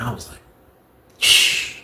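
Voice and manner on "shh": soft unvoiced shush; hushing shh. Hushing himself in his cell, soft shush. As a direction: quietly hush them.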